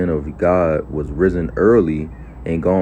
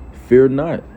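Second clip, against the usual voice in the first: emphatic command; 8 semitones higher, 7 dB louder than usual. Acted. Elisha's answer read emphatically.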